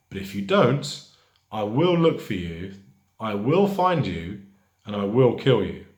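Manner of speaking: acted movie ultimatum, measured and emphatic; mildly angry threat. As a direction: warn them firmly, lightly playing angry. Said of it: "That's not an angry teacher".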